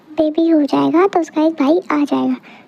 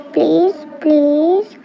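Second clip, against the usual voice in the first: drawn-out begging; much slower than usual. Acted. Child begs uncle for baby.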